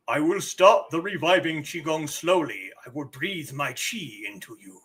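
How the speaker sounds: a hint of an epic elder, dropping away. Elder offering to breathe Qi into player, lightly voiced epic elder. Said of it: "so he must have an epic voice".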